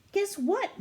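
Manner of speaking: high, loud eager guess what; bursting to share news. Acted. Annie bursting to tell Morgan her news, eager.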